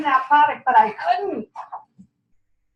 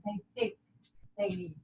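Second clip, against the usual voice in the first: whisper demo; 15 dB quieter than usual. Shown as a demonstration. Consultant showing trainees how to make a group listen, fading to whisper. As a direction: drop softer and softer into a whisper. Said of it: "when you whisper and when you lean in".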